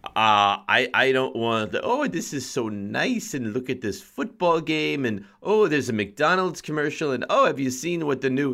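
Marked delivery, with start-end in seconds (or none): 1.8-8.5 put-on old Long Island lady. Mocking a Super Bowl party guest as a Long Island grandma. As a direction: play a gushing Long Island grandma watching the game. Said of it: "you're talking like an eighty-year-old woman from Long Island".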